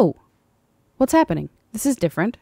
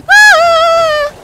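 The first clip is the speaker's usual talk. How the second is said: high, drawn-out scream; startled scream; 9 dB louder than usual. Real, not acted. Swarmed by enemies, drawn-out startled scream. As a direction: shriek as they swarm.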